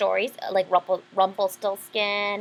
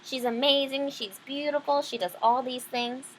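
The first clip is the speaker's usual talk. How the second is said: boastful father; 4 semitones higher than usual. Retold or imitated.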